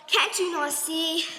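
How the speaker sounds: panting through the words; gasping after the long walk; out of breath. Acted. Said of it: "am out of breath".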